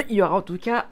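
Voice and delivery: words broken by a choking cough; choking on a drink. Real, not acted. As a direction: talk through a drink gone down wrong. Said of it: "j'ai bu de travers".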